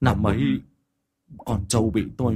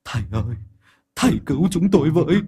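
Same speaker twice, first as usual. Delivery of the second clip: tearful plea; 4 semitones higher, 4 dB louder, faster than usual. Acted. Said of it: "nước mắt tèm lem".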